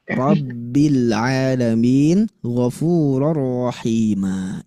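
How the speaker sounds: "Rabbil Alamin" and "Ghafurur Rahima" read slowly with a plain, forward ro; slow, relaxed recitation without forcing; natural ro. Shown as a demonstration. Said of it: "Maka bacanya cukup".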